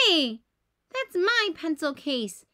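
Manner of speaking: loud protest; indignant yell. Acted. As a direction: snap it back, offended. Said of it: "yells Bingo".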